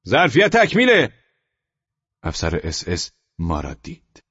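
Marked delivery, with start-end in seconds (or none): 0.1-1.1 high, loud shouted refusal; soldiers shouting. A narrator's reading. Soldiers yelling at the family from the train. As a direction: bark it out over the crowd.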